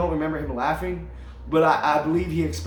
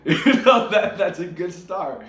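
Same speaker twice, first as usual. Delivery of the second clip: amused God; 3 dB louder, slower than usual. Acted. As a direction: chuckle through it as an amused God.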